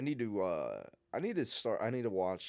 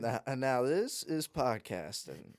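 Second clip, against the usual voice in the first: slow, savoured movie-line parody; slow, relished mock catchphrase; drawn-out catchphrase; 3 semitones higher, slower than usual. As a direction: stretch "this is podcasting" out slowly. Repeats catchphrase, drawn out for effect.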